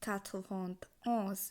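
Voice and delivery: "quatre vingt onze" in slow, separate chunks; French pronunciation demo. Shown as a demonstration. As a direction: model "quatre vingt onze" for learners, falling on "onze". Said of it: "একানব্বই উচ্চারণ হবে".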